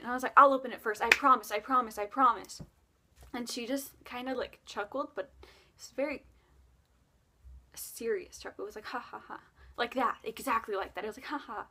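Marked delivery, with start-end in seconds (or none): 0.4-2.6 louder eager promising; eager promise. Retold or imitated. 8.9-9.4 soft, measured ha ha ha; a serious, elegant little chuckle; proper elegant chuckle. Retold or imitated. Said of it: "very proper and elegant". 11.3-11.7 soft, measured ha ha ha; a serious, elegant little chuckle; proper elegant chuckle. Retold or imitated. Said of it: "very proper and elegant".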